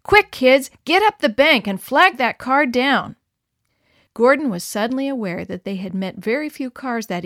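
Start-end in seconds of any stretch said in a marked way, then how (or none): 0.0-3.2 louder, higher hurried orders; urgent command. A narrator's reading. Mother to kids by the road, urgent call. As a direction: send the kids running.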